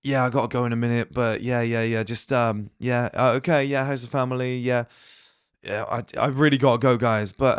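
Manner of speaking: hesitant, trailing-off attempt to leave; half-hearted goodbye, getting drawn back into chat; mumbly wavering, lots of stalling; unassertive excuse. Shown as a demonstration. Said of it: "Like, no".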